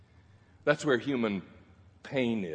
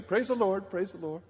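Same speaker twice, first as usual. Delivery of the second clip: mock smiley Christian; 9 semitones higher than usual. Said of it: "a kind of smiley face Christian".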